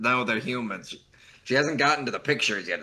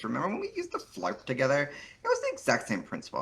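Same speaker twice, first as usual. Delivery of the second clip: put-on Valley Girl voice; 2 semitones higher than usual. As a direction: play a smug Valley Girl. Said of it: "very good Valley Girl voice".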